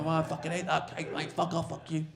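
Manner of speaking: high-pitched mock outrage; retold furious heckler. Heckler rejecting the comic's cake, high mock outrage. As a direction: act out an exasperated man swearing him off. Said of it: "The guy's fucking furious".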